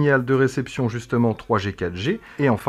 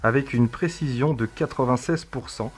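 reading a text aloud; 2 semitones higher than usual. Acted. Reads a text to the device.

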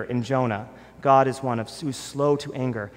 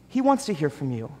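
"He wants to hear from you" quieter, settled and falling; soft repeat; 3 dB quieter than usual. Acted. Pastor repeating to the congregation, softly and sincerely. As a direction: let it land gently.

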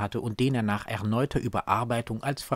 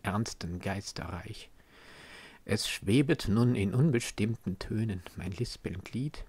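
hushed poem recitation; 2 semitones lower than usual. Acted. Reader closes Goethe's dedication poem with longing, hushed halting recitation.

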